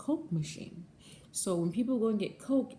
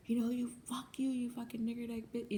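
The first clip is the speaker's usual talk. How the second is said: higher, sneering retold insult; imitating the customer; 6 semitones higher, 5 dB quieter than usual. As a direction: throw his slur back as he said it. Customer's parting insult from car.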